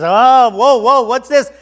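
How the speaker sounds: high, loud, alarmed outburst; startled donkey. Acted. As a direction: voice a donkey pulled up short.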